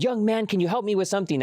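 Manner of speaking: retold frantic appeal; mock freaking out. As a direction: imitate a panicky request for help. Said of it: "was freaking out at the door".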